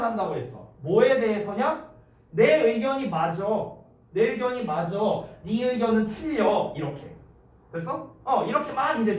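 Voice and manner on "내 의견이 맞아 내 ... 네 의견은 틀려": mildly emphatic, insistent arguing; passionate protest. Acted. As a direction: argue your side, leaning on each point. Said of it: "열정적으로 항변을". (살짝 열을 올린 항변조)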